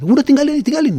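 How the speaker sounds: high, loud mock shout of get out; retelling the official's yelling, half-acted; imitating a yell. Official barging in, ordering the MC out, mock yell. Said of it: "dia teriak-teriak".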